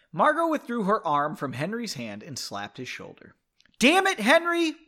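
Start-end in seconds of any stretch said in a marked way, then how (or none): 3.8-4.7 high, loud mock scolding; exclaimed in playful annoyance; acted exasperation. A narrator's reading. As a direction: scold him in a raised, higher voice. Margot scolds Henry after slapping him.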